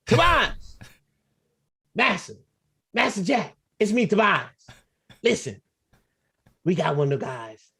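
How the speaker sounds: lightly voiced servant pleading to the master. Jack's servant pleads with his master, lightly voiced groveling. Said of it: "He even called Tobias".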